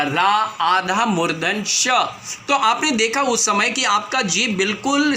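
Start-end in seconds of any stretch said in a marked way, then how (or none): 0.0-1.9 slow, split out: रा, then आधा मूर्धन श on its own; teacher breaks राष्ट्र into its parts slowly, sounding each; syllable-by-syllable breakdown. Shown as a demonstration. Teacher showing students how राष्ट्र splits, slowly spelled out. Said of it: "रा के बाद र में आ की मात्रा".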